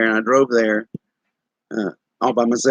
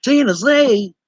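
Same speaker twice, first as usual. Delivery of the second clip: "Tennessee?" asked much higher, rising in disbelief; incredulous echo; 10 semitones higher, slower than usual. Retold or imitated. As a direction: echo "Tennessee?" like you can't believe it. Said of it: "And they go".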